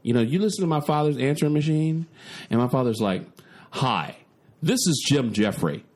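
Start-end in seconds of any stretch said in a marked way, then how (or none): 3.7-5.8 William Shatner. Retold or imitated. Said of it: "He sounds like William Shatner".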